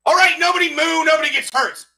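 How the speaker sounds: high, loud mooing hold-up; cow bank robber. Pretend. Cow robbing a bank to everyone inside, threatening. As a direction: shout a hold-up order as a cow, high-pitched. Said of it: "an impression of a cow robbing a bank".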